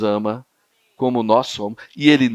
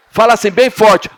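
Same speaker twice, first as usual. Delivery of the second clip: louder, higher call to the crowd; loud urging; 7 semitones higher, 7 dB louder than usual. Real, not acted. Preacher urges the youth to shout back, loud. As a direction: rouse them to answer. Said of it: "preacher urging the youth loudly".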